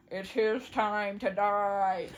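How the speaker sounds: slow, lightly voiced pronouncement; a touch of grave prophet, drawn out; solemn seer. Vision cat repeats pronouncement.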